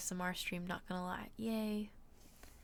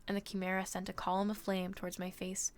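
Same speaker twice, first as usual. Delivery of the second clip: story narration. A narrator's reading. Streamer reading a novel to viewers, measured narration. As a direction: read the adventure aloud with steady pacing.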